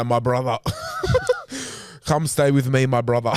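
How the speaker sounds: hearty mock-Russian, breaking into laughter; Russian accent. Clerk welcoming his Russian brother, jokey Russian accent. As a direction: invite them in a hammed-up Russian accent. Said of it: "Is that your Russian accent?".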